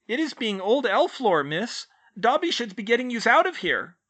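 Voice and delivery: very high, loud squeaking elf voice; squeaky elf. A narrator's reading. House elf squeaking to Hermione from her shoulders, high and loud.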